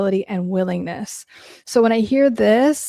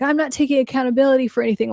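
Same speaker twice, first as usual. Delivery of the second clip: fast, higher-pitched mock defiance; mock aggressive refusal; 4 semitones higher, much faster than usual. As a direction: imitate someone aggressively refusing, rapid-fire. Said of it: "being aggressively like".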